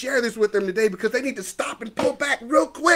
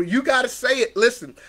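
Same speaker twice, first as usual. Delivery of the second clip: ordinary talk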